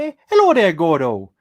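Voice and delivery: very loud, put-on Irish accent. Greeting Gordo while trying out an accent: put-on Irish accent. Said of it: "I don't know why I'm doing the accent".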